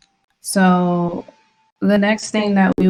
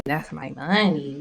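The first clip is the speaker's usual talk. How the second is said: softer, lower, drawn-out grumble; defeated slow repeat; quiet, slow lament; 3 semitones lower, 6 dB quieter than usual. Real, not acted. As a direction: let it sink in, deflated. Repeating lament after outburst.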